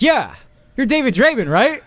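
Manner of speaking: high, loud, gushing excitement; eager fan. Retold or imitated. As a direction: beam at your hero. Fan eagerly greets his idol.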